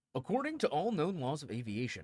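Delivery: very loud, booming, swooping put-on radio announcer voice. Reading a script aloud on camera, in a radio announcer voice. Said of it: "I'm just gonna do my best like radio voice".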